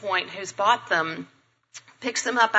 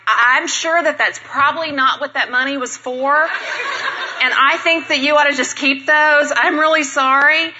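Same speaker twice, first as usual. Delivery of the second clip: loud, higher-pitched retold apology; flustered backpedaling; 4 semitones higher, 4 dB louder than usual. Speaker to generous stranger about church money, flustered backpedaling. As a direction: backpedal loudly, voice pushed up in embarrassment.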